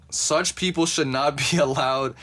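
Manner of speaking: real laugh breaking into the words; laughing while reading. Real, not acted. Podcaster reading an outrageous quote aloud, real suppressed laughter. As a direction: try to read it out, but crack up. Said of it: "I'm sorry, I'm laughing at this".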